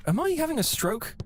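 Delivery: high bewildered question; stunned disbelief. Retold or imitated. Buddy bewildered.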